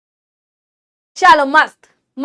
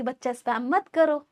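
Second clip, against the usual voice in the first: softer, gentle reminder; teacher lovingly telling the class not to spam; 3 semitones lower, 10 dB quieter than usual. Shown as a demonstration. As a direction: coax them kindly. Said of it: "प्यार से बोला आप लोग को".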